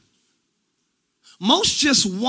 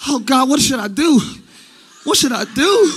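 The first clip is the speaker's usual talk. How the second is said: mock pleading. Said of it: "I'm doing exaggeration".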